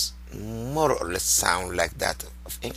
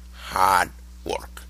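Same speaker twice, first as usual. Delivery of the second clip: whispered answer. Real, not acted. Answering own quiz question.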